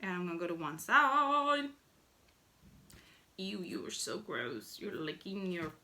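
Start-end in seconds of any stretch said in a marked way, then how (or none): 3.4-5.7 hint of a husband recoiling; mock disgusted husband. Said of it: "My husband would probably be like".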